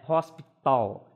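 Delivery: "hospital" slowly, with the t leaning toward a d; soft t in hospital. Shown as a demonstration. Teacher modelling "hospital" for class, t toward d. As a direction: draw out "hospital", t almost a d. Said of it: "Repare que eu não vou falar hos".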